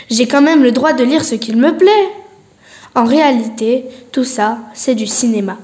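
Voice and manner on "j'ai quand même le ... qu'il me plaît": protesting. Acted. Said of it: "Je proteste".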